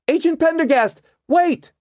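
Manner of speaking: loud, high call to wait. A narrator's reading. Margot calls the agent to stop, a loud high shout.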